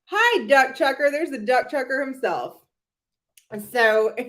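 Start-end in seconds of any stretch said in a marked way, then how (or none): 0.1-2.6 lightly high mock voice; mocking greeting. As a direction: greet him with a teasing, lightly raised voice. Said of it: "she's a little Shannon Beador".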